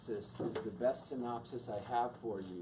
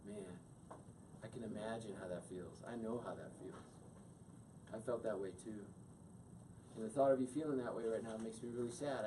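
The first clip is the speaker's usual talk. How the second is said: softer, gentle caring reply; wife comforting her husband, softly and tenderly; 4 dB quieter than usual. Shown as a demonstration. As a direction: meet his hurt with quiet empathy. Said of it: "And then she could go".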